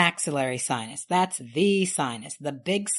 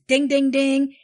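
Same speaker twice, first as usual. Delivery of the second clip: excited; 7 semitones higher, 6 dB louder than usual. Real, not acted. Announcing the correct answer.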